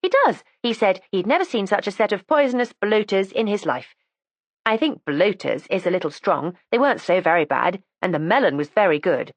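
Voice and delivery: lightly voiced, eager young girl; young girl's voice. Erica chats about luncheon.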